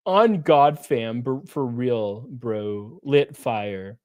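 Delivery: lightly mocking Valley girl; Hassan Piker. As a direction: toss out slang in a mock impression, sinking in pitch. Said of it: "That's Hassan Piker".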